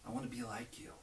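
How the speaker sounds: soft hushed voice, first words unvoiced; quietly asking God for help; whispered prayer. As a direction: murmur it close to God's ear. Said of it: "whisper in his ear and say".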